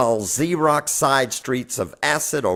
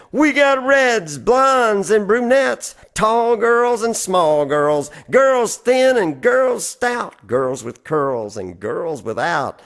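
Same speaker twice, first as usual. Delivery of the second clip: barker's yell; 5 semitones higher than usual. Retold or imitated. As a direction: hawk it to the crowd like a street barker.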